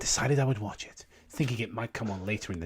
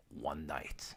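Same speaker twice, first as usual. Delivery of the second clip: whisper; 6 semitones lower, 13 dB quieter than usual. Acted. Creepypasta reading opener, whispered.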